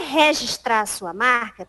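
"registrar" with the disputed open first syllable; regional pronunciation. Retold or imitated. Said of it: "ela dizia que eu falava registrar".

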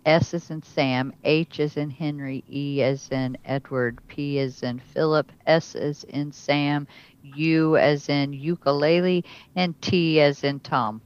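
letters with phonetic examples; spelling it out. Shown as a demonstration. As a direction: spell it with as in words. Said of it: "how do you spell it".

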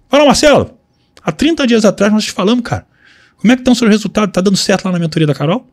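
bright, eager greeting to a client; upbeat sales call. Acted. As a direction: call the client like an old friend. Calling a lead on the phone. (ligação animada de vendedor)

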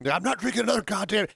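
movie quote. Retold or imitated. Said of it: "You haven't seen Sideways".

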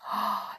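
horrified intake of breath; storybook gasp at bad news; dismayed gasp. A narrator's reading. Moonface sees his slip nailed up.

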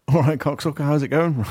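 imitating Nigel. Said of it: "he's just like".

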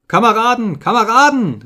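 high, loud appeal; calling out desperately. A narrator's reading. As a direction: cry out to stop your comrades. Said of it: "riefen sie".

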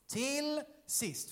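drawn-out, solemn Bible reading; scripture reading. A narrator's reading. Preacher opens the Bible passage, formal reading. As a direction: read it out slowly and formally.

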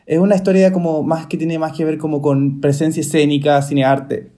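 speaking between sips of beer; while sipping a drink. Real, not acted. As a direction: talk with beer in the mouth. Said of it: "estoy tomando cerveza".

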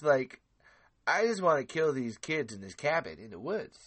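a hint of a laid-back surfer guy; Edwin impression. Doing his friend Edwin as a mild stoner dude. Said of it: "do an impression of my friend Edwin".

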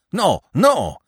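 high, loud frightened denial; alarmed cry. A narrator's reading. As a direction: cry out in sudden fear. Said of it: "cried the other".

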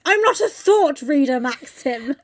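mock line slowed through laughter; laughing quote. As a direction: giggle out the quote slowly. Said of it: "I do just love the savages".

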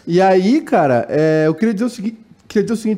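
talking through hiccups; speech broken by hiccups. Real, not acted. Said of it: "tô com soluço".

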